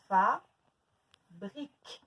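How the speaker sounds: "Fabrique" very slow, two separate parts; long pause inside "Fabrique"; split into syllables. Shown as a demonstration. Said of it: "Deux syllabes".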